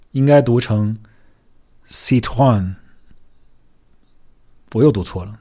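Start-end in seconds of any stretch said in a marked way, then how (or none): 1.9-2.8 Citroën retried in French, sit-twan; French pronunciation. Shown as a demonstration. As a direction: say Citroën again, carefully in French. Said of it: "再来一次". (再试法语读音 Citroën)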